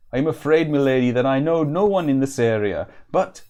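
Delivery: lilting, put-on vaguely Welsh woodsman; vaguely Welsh accent. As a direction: improvise a rough Welsh-ish country accent. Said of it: "I think it might be vaguely Welsh".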